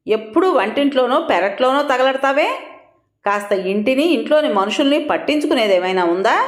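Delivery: a scolding outburst that rises sharply at the start; mildly acted shouting at his wife; husband snapping at his wife in the backyard; angry shout. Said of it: "అని అరిచాడు".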